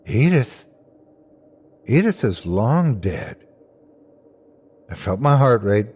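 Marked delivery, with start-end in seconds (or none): 0.1-3.4 nurse. A narrator's reading. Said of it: "The nurse next to me answered".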